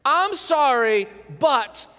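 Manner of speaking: insincere, drawn-out I'm sorry; mock a grudging apology; fake apology. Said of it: "someone says it like this".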